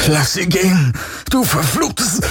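high, strained furious cry; white-hot rage. A narrator's reading. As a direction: burst out in desperate anger. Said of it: "sein Zorn weißglühend". (hoher, gepresster Wutschrei)

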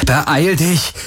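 a touch of a shout; calling out. A narrator's reading. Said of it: "rief Garland".

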